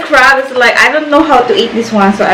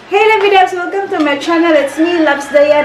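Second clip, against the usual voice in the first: high upbeat channel welcome; vlog intro voice; 5 semitones higher than usual. Real, not acted. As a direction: hype up the viewers.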